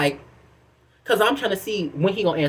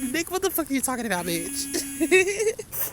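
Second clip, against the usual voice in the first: high, soft cartoon dog voice; a little dog talking back, high and soft; voicing the dog; 7 semitones higher, 6 dB quieter than usual. The dog answers her, voiced.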